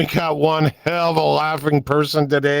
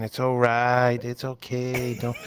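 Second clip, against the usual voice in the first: mock soothing; 2 semitones lower, 5 dB quieter, slower than usual. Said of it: "and you just going".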